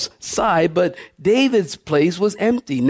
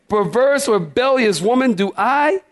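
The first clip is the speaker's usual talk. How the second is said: higher, biting Perverse; mock raging king; 6 semitones higher than usual. Saul berating his son, hammed-up higher fury. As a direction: spit it out like an angry king.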